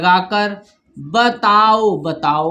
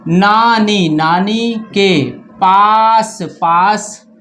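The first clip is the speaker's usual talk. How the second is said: slow word-by-word story reading, repeating each word; reading aloud to children; much slower than usual. Shown as a demonstration. Teacher reading a story to pupils, slowly. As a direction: read it out piece by piece for the class.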